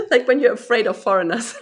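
laughing through the words, a little embarrassed. Real, not acted. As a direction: say it while still chuckling. Embarrassed laugh over forgotten word.

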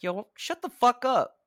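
loud, high-pitched yell across a theater; retold shout. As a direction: shout it at noisy kids down the aisle. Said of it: "I just shouted across the".

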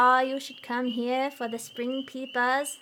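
put-on slow New England accent on "peepaws". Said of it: "I'm doing my terrible New England accent".

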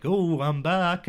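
high, loud and slow, a cocky pilot; imitating the pilot. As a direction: drag out a triumphant comeback line. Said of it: "where he's like".

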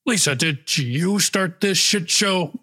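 drill sergeant. Acted.

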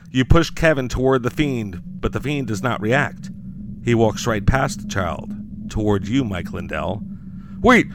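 dramatic horror story read; story narration. A narrator's reading. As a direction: narrate like a campfire horror tale. Narrates Mike Lindell's doom.

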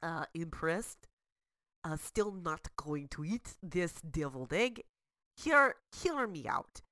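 mock Russian accent, dry and unimpressed; bad Russian accent. Sarah declines the recipe in a bad Russian accent. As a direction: politely refuse the dish in broken Russian English. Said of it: "speak in bad Russian accents".

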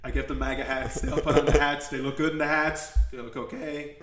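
lightly voiced Donald Trump, boastful; rambling braggart, hint of Trump; Trump impression. Podcast host riffs as Trump on his enemies, mild Trump voice. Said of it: "We're getting into fucking impressions".

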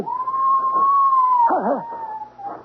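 very high, sustained scream; piercingly high wail, held long. Acted. Woman out of sight of searching man, long scream.

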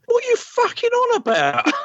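high, put-on voice of an unimpressed bloke; gruff Ben voice. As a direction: throw it out like a fed-up sailor. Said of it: "to be that voice to go".

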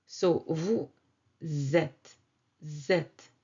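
"vous êtes" linked as "vou-zêtes"; liaison demo. Shown as a demonstration. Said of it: "this sound that we use to link".

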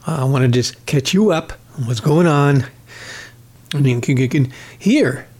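breathless, strained speech; talking short of breath. Real, not acted. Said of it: "how out of breath I am".

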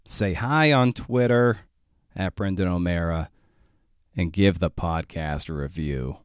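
measured, deliberate sign-off read; podcast outro read. Acted. Host signs off to podcast listeners, scripted outro read. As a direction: read the show's closing plugs, unhurried.

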